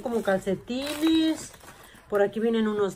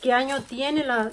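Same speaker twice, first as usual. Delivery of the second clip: thrilled; 6 semitones higher, 4 dB louder than usual. Real, not acted. Showing viewers the receipt, delighted. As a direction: stretch the "ay" in delight.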